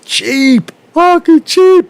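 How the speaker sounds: a sudden shrill-free high burst of scorn; exasperated outburst. Real, not acted. Ranting about Italian tourists.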